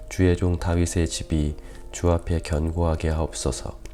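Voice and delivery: measured, solemn Bible reading, firm on each address to God; scripture reading. Real, not acted. Pastor reads David's prayer to the congregation, formal scripture reading. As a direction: read the passage out to a congregation.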